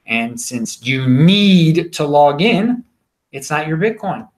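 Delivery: "need" and "in" drawn out slowly; slow emphatic line. Shown as a demonstration. Closing his Coinbase point to viewers, slow and emphatic. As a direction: drag the phrase out for weight. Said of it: "I stress the word need there".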